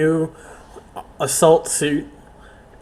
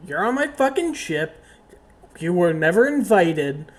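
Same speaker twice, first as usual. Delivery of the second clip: higher, fast furious captain; higher heated captain rant; angry rant; 6 semitones higher, 3 dB louder than usual. Acted. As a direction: rant at the uninvited guest. Captain rants at intruder.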